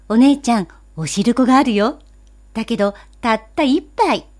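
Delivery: put-on loud, eager child call. Boy tells his sister about the sweet soup, loud and eager. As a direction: blurt it out for the whole street to hear. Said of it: "と大きな声で言いました".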